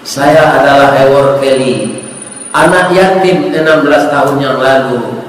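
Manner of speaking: low, gently voiced grateful letter; understated, tender reveal; heartfelt letter. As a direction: read aloud with quiet sincerity. Doctor's grateful letter read out.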